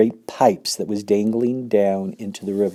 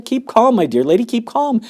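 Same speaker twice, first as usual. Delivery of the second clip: crying out; 13 semitones higher, 4 dB louder than usual. Acted. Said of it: "cried Mister Wonka".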